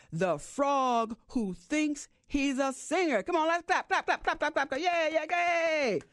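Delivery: lightly hammed-up emcee hyping the crowd; show announcer. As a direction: work the room like a showman. Fox hosts the concert show.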